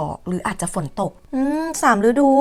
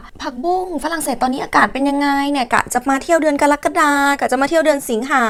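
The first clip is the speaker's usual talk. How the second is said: imitating a viewer, higher voice; put-on higher voice of a curious would-be tourist; inquiring viewer; 5 semitones higher than usual. Viewer asking the vlogger about French weather, imitated inquisitively. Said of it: "ท่านผู้ชมที่มีแผนที่จะมาเที่ยวฝรั่งเศส ก็จะถาม".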